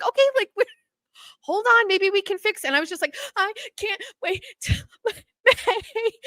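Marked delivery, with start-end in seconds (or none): 0.0-2.7 much higher, hurried panicky receptionist voice; flustered receptionist. Retold or imitated. Scheduler trying to calm crying patient, flustered high voice. 3.3-6.1 much higher, slow whimpering wail with a laugh breaking in; mock sobbing whine. To the scheduler on the phone, hammed-up sobbing wail. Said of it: "Now I'm crying".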